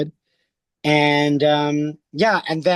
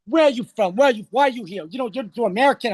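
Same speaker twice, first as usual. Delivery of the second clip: imitated celebrities, higher and insistent; curious questioning; 5 semitones higher, faster than usual. Stars ask why he is here, imitated curiosity. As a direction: fire mock questions at the newcomer. Stars quiz the stranger, quoted.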